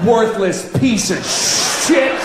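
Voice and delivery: hammed-up shouted curse; mock insult yelled in an elevator. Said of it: "turn right to their face and go".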